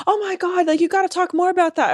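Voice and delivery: high, bubbly fan voice; imitating girls gushing in messages; gushing fangirl. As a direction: gush like an excited girl fan. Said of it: "messages from girls that were like".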